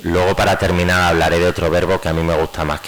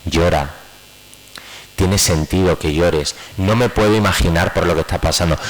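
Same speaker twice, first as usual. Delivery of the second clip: validating, gentle. Shown as a demonstration.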